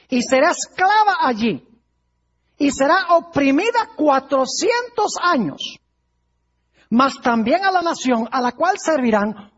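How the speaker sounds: emphatic, measured proclamation of scripture; solemn scripture reading. Acted. God's promise to Abraham read to a congregation, emphatic proclamation. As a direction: read it out as a weighty prophecy.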